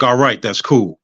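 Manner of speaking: unfazed, matter-of-fact reply; casual acceptance. Retold or imitated. Patient answers nurse about the new heart, casual. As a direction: take the big news in an everyday voice. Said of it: "said it just like I'm saying it to you now".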